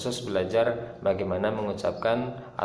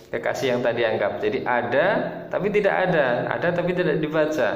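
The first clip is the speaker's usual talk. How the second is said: playful teasing; 3 semitones higher, faster than usual. Shown as a demonstration. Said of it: "bahasa cintanya".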